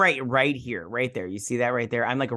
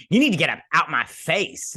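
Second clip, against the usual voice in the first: louder, punchy sassy take-off; exaggerated sass; 3 semitones higher, 5 dB louder than usual. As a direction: ham up the confrontation, swooping up on the end. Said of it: "she doesn't say it like that".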